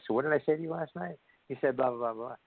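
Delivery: high-pitched back-and-forth protesting; mock defensive exchange. Partners revisiting last night's remark, mock defensive. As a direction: play a couple sorting out a spat.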